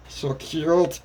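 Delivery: high-pitched delighted gush. Acted. Kirishima sees the girl's happy face, gushing.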